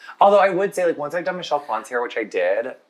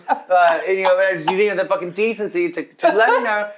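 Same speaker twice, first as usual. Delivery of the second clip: higher-pitched comic re-enactment of an irate phone message; mock-indignant voicemail tirade; ranting caller; 6 semitones higher than usual. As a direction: imitate someone going off on a rant. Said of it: "Conor McGregor's sister going off on the dog groomer".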